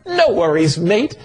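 touch of Australian brogue; easygoing Australian lilt, rising at the end; Australian accent. Retold or imitated. Jesus reassuring worried Philip, lightly imitated in Australian. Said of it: "not in Australian brogue".

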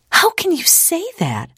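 very high, shocked retort. A narrator's reading. Ida challenges her father's advice to forget, retorting. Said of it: "Ida retorted".

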